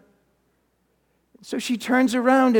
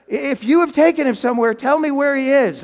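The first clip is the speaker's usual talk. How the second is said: urgent plea; 4 semitones higher, 5 dB louder than usual. Acted. Mary pleads with supposed gardener.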